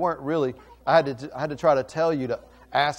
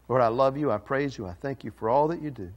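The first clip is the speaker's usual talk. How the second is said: prayer. Real, not acted. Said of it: "pray with me".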